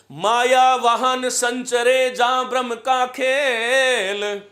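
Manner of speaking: drawn-out, sing-song couplet; slow, measured verse recitation; slow poem recital. Acted. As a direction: recite the doha slowly, savouring each word.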